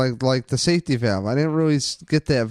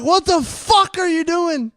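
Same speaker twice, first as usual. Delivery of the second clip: mock angry family. Family in jerseys yelling at the team, mock outrage. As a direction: play a furious dad in the stands. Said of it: "they're all like".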